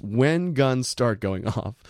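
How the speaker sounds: "when" punched, the phrase slowed right down; slow, pointed emphasis on "when"; stress on WHEN. Retold or imitated. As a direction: hit "when" and draw out the rest. Repeating the wording for emphasis.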